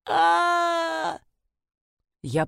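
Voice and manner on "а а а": high cry for help from a pit; a cry from far off; distant cry. A narrator's reading. Trapped woman answers from a pit, high cry. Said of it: "вдруг раздалось".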